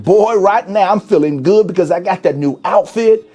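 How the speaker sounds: host plays a debtor bragging to the audience, hammed-up boastful voice; mock bragging spender. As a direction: crow about the outfit, car and jewelry like a big spender.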